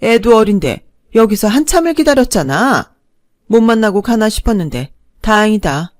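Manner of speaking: a hint of a pushy mother-in-law acting friendly; brazen stepmother-in-law. Mother-in-law brazenly greeting the couple, lightly voiced shameless tone.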